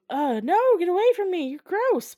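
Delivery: high, loud comic recoil; mock disgusted protest. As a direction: push them away in hammed-up revulsion. Man repelling undead lover, acted.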